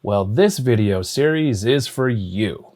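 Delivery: big promo announcer read; radio announcer voice. Shown as a demonstration. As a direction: sell it like a radio ad opener. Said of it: "Sorry to use radio announcer or T V announcer voice there".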